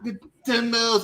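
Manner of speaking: high, dragged-out "the demos" like a fawning fan; mock the gushing fan crowd; imitating AEW fans swooning over the demos. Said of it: "This is how you A E W clowns talk".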